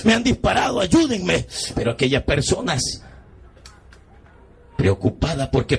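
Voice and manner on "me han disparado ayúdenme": pleading, pitch climbing steadily higher; acted desperate plea, building in urgency; retold begging. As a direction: beg for your life in a reenactment. Reenacts begging strangers to save him.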